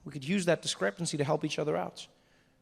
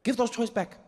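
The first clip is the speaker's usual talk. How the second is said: higher, threatening mother; a mom threatening a slap; scolding Xhosa mother; 6 semitones higher than usual. Retold or imitated. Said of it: "mom scolding in Xhosa".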